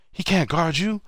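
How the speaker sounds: high-pitched egging-on, rising at the end; worked up, pitched way above normal talk; hyped-up taunting. Retold or imitated. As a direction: imitate a fired-up player goading his teammate. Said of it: "K G just gets hyped".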